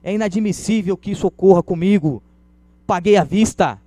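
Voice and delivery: acted outrage, escalating with each demand; raising his voice. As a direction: build the complaint into an angry shout. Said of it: "ele vai aumentando a voz".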